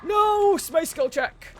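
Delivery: high, loud cry of outrage; loud protest. Real, not acted. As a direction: yell out as the game thwarts you. Cries out during the game.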